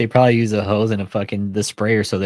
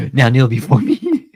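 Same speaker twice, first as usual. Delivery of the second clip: booming arrogant alien overlord; 3 semitones higher, 6 dB louder, slower than usual. Retold or imitated. Slow booming repeat.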